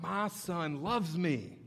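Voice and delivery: hushed emotional realization; tearful joy. Retold or imitated. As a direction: savor it like a moved father. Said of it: "I'm like".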